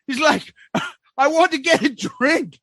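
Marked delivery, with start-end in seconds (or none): 1.2-2.6 high mock Aussie accent; boozy Aussie impression; drunk Australian. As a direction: order like a drunk Australian at a bar. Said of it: "Australian guy".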